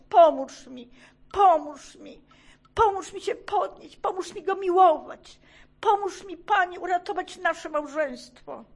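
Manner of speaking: loud, high, pleading cry to God; desperate crying out. Retold or imitated. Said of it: "zaczęłam desperacko wołać". (rozpaczliwe, głośne wołanie do Boga)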